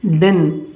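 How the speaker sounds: डिन said as "din", the t dropped; डिन with no t sound; saying didn't. Shown as a demonstration. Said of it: "क्या कहलाएगा?".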